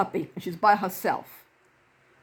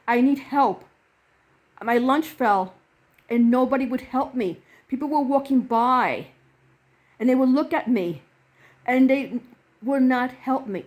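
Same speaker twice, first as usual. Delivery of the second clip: mildly distressed retold plea; retold near tears; 3 semitones higher, 3 dB louder than usual. Woman who dropped her lunch confides in a helper, retold near tears. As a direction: voice her plea with a touch of upset. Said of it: "she almost starts bursting in tears".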